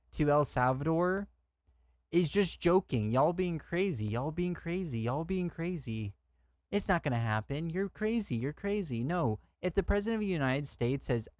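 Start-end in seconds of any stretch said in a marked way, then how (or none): 2.1-9.0 higher-pitched mock incredulity; mocking dismissal. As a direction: parrot the deniers in a sing-song jeer. Mocking those who dismiss the threat.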